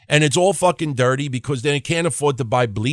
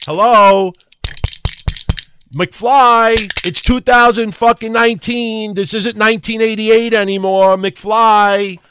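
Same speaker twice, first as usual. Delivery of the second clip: loud, high taunting holler; mock calling out; 5 semitones higher, 5 dB louder, slower than usual. Host heckles doubters of Carrillo, mock calling out. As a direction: holler it like knocking on a thick skull.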